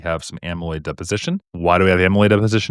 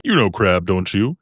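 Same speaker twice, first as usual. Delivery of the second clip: exaggerated voice; slower than usual. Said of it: "I always say in that voice".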